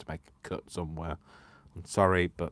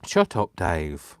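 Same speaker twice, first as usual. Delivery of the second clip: mock yell; 11 dB louder, much slower than usual. Shouting at Dave to shut up, hammed-up yell.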